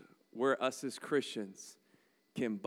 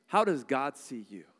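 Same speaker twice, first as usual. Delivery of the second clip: How asked louder, falling; louder preached question; 5 dB louder than usual. Shown as a demonstration. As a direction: put the question to the room. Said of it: "repeated question".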